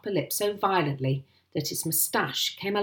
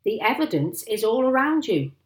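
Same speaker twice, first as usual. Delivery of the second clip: high, loud exasperated retort; indignant yell; angry shout; 6 semitones higher, 6 dB louder than usual. A narrator's reading. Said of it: "shouted Mister Hazel".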